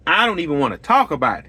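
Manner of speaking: quick, dismissive mock of the wife; imitating wife's brush-off. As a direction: rattle it off like she's done talking. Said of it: "That's exactly how she said".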